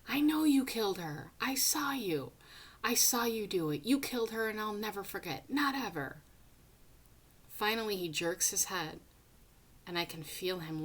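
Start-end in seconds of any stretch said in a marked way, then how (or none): 0.1-6.2 screaming accusation. Acted. Boy screaming at the killer that he saw it. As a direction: scream it at him, then keep on. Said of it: "so all I can do is keep screaming".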